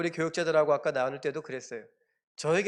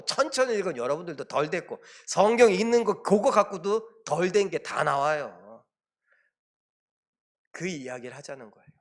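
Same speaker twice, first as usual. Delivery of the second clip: normal talking voice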